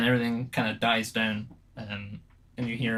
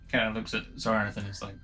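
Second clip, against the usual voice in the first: ordinary talk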